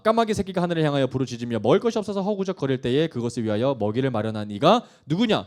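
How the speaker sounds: emphatic, driving rhetorical questions; forceful scripture reading. Acted. God questioning Job about creation, forceful. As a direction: read it out as God's challenge. Reads God's questions aloud.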